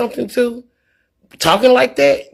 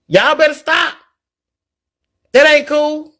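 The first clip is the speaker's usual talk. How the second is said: higher, firm acted scolding; giving a talking-to; 4 semitones higher than usual. Stepping in on fighting kids, acted telling-off. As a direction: step in and break it up, lightly acted. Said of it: "And I'm gonna give them a talk".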